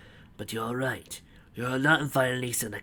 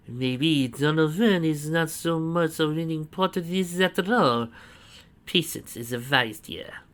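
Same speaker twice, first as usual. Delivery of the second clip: a hint of higher, slow musing; lightly voiced Antoine; 5 semitones higher, 4 dB louder, slower than usual. A narrator's reading. Antoine lying still, lightly voiced inner musing. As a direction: muse to himself slyly.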